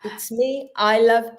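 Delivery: a high, loud, carefree "Who" that drops into a casual "cares"; carefree shrug. Retold or imitated. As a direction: toss it off like nothing matters. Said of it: "And I think".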